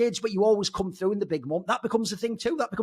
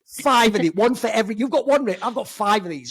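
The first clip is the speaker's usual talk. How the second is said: boastful Zonic impression; 3 semitones higher, 5 dB louder than usual. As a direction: crow about it like a cocky ex-boss. Zonic boasting, acted quote.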